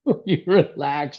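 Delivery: slow, drawn-out mock exasperation; imitating wife. Wife to anxious dad, slow mock exasperation. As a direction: lightly mimic a wife telling him to relax, slowly. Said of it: "My wife's, you know, she's".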